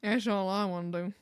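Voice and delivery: put-on Southern accent; slightly low Southern US voice; American Southern accent. Shown as a demonstration. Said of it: "Of course it's Southern".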